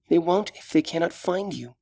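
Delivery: put-on gentle, caring young elf; young elf woman. Solana's voice held.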